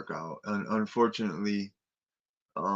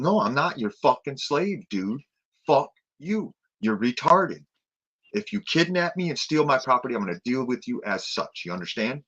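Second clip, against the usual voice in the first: mock angry defiance; 5 semitones higher, 4 dB louder than usual. Imagined telling off the officer.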